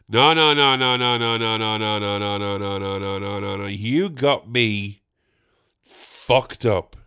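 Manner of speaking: emphatic denial. Acted. Refusing the lady's early checkout claim, no's fading out. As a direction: wave it off, dying away to a slow grumble.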